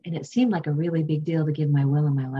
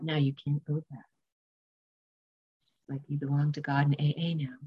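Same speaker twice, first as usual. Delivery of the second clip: sober inner warning; 4 semitones lower than usual. Retold or imitated. Inner voice gives a stern warning.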